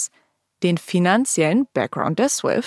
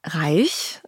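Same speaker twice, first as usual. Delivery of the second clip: whispering; 3 semitones lower than usual. Real, not acted. Punchline reveal of family wealth.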